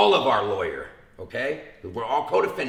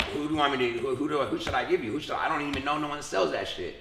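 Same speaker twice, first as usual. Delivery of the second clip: playing dumb; 2 semitones higher, faster than usual. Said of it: "the dead dog role".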